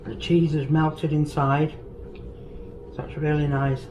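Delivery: chewing while talking; talking through a mouthful; mouth full. Real, not acted. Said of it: "Sorry to talk with my mouth full".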